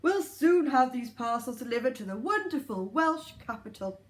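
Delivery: lightly voiced Santa. Santa speaks.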